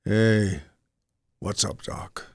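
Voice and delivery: lightly voiced laid-back rabbit with long pauses; cartoon rabbit. Rabbit answering the hunter's knock, casual cartoon voice.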